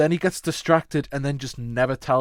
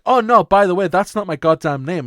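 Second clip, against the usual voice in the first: mock exasperated mouse; 6 semitones higher, 10 dB louder than usual. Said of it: "you could just be like".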